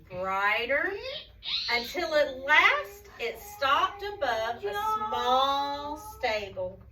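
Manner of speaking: slow, wondering narration with long stretched words; story reading to children. A narrator's reading. Telling children about the stable, slow wondering storytelling.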